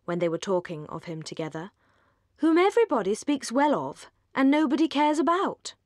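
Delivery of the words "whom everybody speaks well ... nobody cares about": scornful quip. A narrator's reading. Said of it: "said Willoughby".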